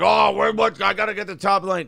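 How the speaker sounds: mock a fussy gear snob. Mocking keyboard snobs.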